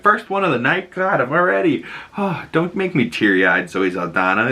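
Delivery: mock teary gushing. Own reaction to speech.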